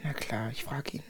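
soft unvoiced whisper. Whispering at the old woman's sickbed. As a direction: hush it so the patient can rest.

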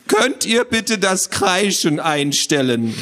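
high, slow squawky creature voice; squawky complaint. Acted. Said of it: "eine quäkende Stimme".

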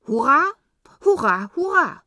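loud, high hurrah cheers; ringing knightly hurrah; cheering knight. Acted.

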